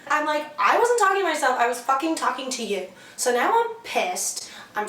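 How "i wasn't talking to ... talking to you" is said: furious at being called crazy, snapping; indignant snap. Retold or imitated. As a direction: bite back at him. Angry retort to date.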